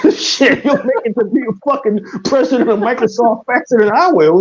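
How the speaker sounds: real laughter running through the words; laughing while he teases her about Microsoft. Real, not acted. Joking to his co-host, laughing as he talks.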